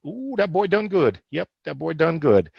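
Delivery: a light Southern proud-papa voice, understated; mild Southern accent, proud and pleased; folksy Southern drawl. Retold or imitated. Host imitating a proud Southern papa, mild Southern accent. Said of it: "we've gotta do it in that accent there".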